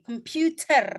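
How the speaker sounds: "computer" the American way, r sounded at the end; American pronunciation. Shown as a demonstration. Teacher contrasting accents for students, American "computer" with final r. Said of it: "Kalau kamu American".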